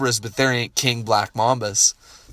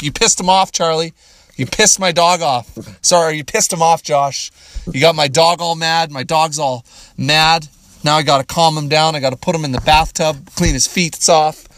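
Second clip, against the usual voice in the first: higher, louder mock scolding; mock complaint; 4 semitones higher, 3 dB louder than usual. Blaming Josh for riling his dog, mock scolding. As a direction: tease a friend with fake blame.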